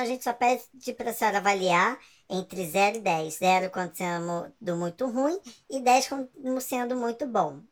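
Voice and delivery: polite scripted phone agent; customer service voice. Pretend. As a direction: read the closing script like a call agent. Imitates call center closing script.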